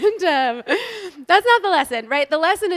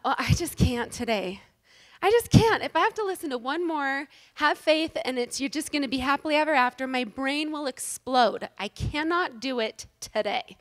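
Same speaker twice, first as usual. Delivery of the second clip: exasperated inner voice. Retold or imitated. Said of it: "And I just thought".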